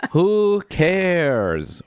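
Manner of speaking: high-pitched mock exasperation; baffled exasperation. Talking to a book at home, exasperated and baffled. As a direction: retell it as an exasperated outburst. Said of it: "I was baffled".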